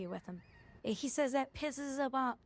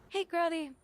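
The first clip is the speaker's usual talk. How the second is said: higher, louder smug coworker voice, a touch hammed-up; mocking the narcissist; 5 semitones higher, 3 dB louder than usual. To coworker, mimicking the bragging narcissist: smug, self-pitying mock voice. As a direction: lay on the self-pity with a mock grin.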